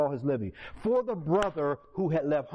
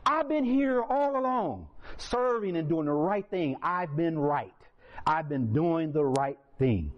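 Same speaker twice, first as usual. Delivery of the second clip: self-righteous brother; slower than usual. Retold or imitated. Older brother complaining to the father, indignant. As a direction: protest like the wronged dutiful son. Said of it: "This is what he said".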